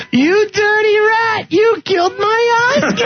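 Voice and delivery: high slow Cagney parody. Acted. Host reads a listener's Cagney-style joke in a high hammed-up voice. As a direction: ham up the old gangster quote.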